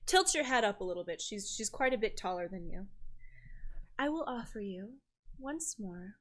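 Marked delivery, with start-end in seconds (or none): 4.0-6.2 soft, measured sorceress voice with pauses; enchantress's offer. Acted. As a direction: offer it gently, like a powerful enchantress. Game master voices enchantress making an offer.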